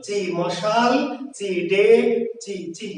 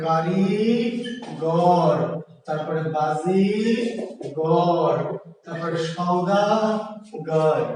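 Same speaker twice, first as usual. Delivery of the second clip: slow word split; 3 semitones lower, much slower than usual. Shown as a demonstration. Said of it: "ভেঙে ফেলবেন".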